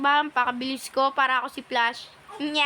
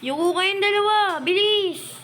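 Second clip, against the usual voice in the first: higher, louder urgent order; urgent call; 8 semitones higher, 5 dB louder than usual. Real, not acted. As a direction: hurry them to crouch down. Repeats crouch order, urgent.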